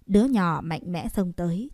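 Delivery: plain reading voice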